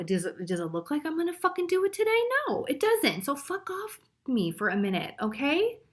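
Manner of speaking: mock irritated outburst; exasperated rant. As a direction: snap back at nagging guides. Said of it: "that's what it feels like".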